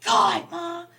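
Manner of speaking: high mock whine, near tears; whiny crying. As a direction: imitate an upset teen sobbing. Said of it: "like, you were crying".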